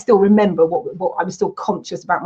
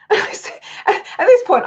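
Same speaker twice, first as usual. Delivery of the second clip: laughing; 11 semitones higher, much slower than usual. Real, not acted. Laughing at absurd conversation.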